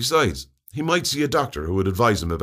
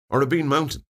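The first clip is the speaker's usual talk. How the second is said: puzzled; 6 semitones higher than usual. A narrator's reading. Narrator voices puzzled inner questions.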